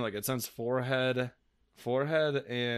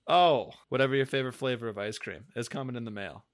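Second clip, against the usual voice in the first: home shopping host. Pretend. Infomercial bit continues, fast.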